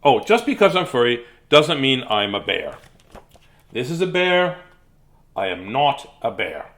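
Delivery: mock-Australian storybook animal, mildly indignant; lightly voiced indignant Warren. Furry Warren telling readers he is no bear, mildly indignant. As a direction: protest in a loosely faked accent. Reads Warren in the put-on accent.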